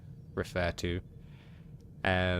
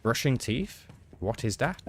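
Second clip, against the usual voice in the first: baffled question; 2 semitones higher than usual. Real, not acted. Baffled by chat suggestion.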